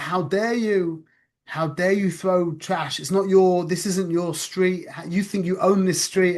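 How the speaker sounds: mildly heated retold scolding; indignant telling-off. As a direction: act out going off on a kid, in measured outrage. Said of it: "I went off on him".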